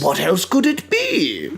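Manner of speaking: slow, put-on lover's voice; relieved lover. Lover forgiving the switched places, slow mock relief. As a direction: draw it out with hammed-up relief. Same acted lover continues.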